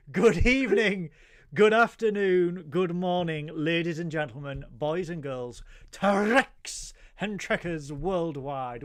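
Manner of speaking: booming host greeting, winding down; showman announcer. Acted. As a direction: roll out the welcome like a ringmaster. Host's grand show greeting.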